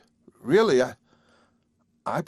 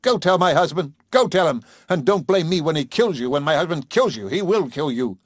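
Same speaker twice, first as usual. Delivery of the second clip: higher, louder furious woman, strongest on go tell my husband; furious outburst; 5 semitones higher, 3 dB louder than usual. Acted. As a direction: hurl it at the old man in fury. Carol furious at the father.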